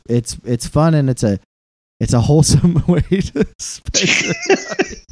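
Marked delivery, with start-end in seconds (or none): 2.0-5.0 failed straight face. Real, not acted. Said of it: "I almost said that with a straight face".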